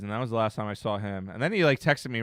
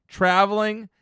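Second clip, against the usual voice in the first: voice crack; 7 semitones higher, 5 dB louder than usual. Real, not acted. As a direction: voice cracks up high. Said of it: "Win voice crack".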